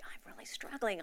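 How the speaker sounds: breathy whisper, barely voiced; whispered confession. Alone in the gym locker room, whispering. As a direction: confide it under your breath.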